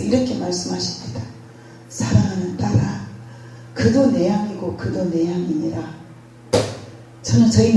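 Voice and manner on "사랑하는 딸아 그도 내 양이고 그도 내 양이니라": softer, calm and tender; gentle divine reply. Retold or imitated. God gently answers the grieving pastor, soft and calm. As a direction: soothe her quietly as God.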